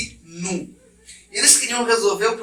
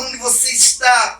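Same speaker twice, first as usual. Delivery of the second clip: fatherly call; 4 semitones higher, 5 dB louder than usual. Acted. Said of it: "Como um pai procura o seu filho".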